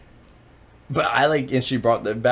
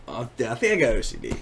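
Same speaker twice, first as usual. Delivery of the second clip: laughing; faster than usual. Real, not acted. Laughing confession of OCD.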